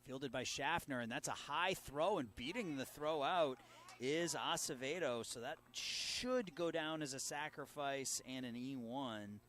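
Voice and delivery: rising excitement on the close play; building into an excited call. Real, not acted. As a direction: call it as the runner beats the throw.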